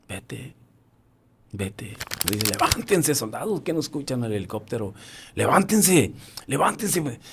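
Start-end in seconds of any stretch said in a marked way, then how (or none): 0.1-2.0 faint plea. Retold or imitated. Dying comrade sending him away. 2.5-7.2 urgent rousing. Retold or imitated. Rousing collapsed soldiers for helicopter.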